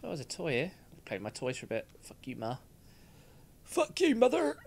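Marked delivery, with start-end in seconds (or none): 3.6-4.6 mock bratty child.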